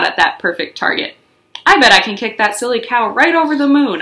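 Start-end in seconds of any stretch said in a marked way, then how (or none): 1.7-4.0 a touch of excited mischief; eager boast. Acted. Junie bragging to herself before the kick, excited. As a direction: brag about the big kick. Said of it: "I said".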